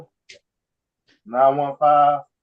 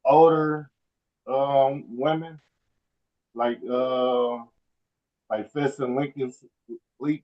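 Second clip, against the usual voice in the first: faint, off the phone; phone held away; slower than usual. Real, not acted. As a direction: mouth away from the mic. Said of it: "I can't hear you. You gotta talk into the phone".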